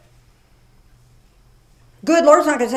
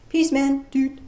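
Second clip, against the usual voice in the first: surfer hippie; 2 semitones higher than usual. Pretend. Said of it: "Is that the right way?".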